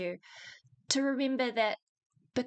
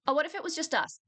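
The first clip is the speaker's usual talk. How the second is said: retold pleading suitor; 5 semitones higher, faster than usual. Acting out the persistent suitor.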